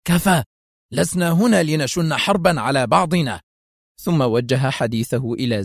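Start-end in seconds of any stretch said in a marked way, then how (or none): 0.1-3.4 angry impatient. Acted. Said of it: "هتف به في غضب ونفاد صبر".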